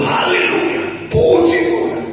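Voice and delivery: high-pitched church acclamation; demonstrated hallelujah shout; exuberant praise cry. Retold or imitated. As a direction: call out praise, leaping up high at the end. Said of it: "agak sedikit keberbekan".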